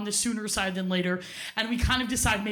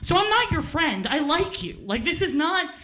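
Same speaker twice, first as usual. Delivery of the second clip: furious retort; 6 semitones higher than usual. Retold or imitated. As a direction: spit it at the boy who friend-zoned you. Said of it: "And I got so mad".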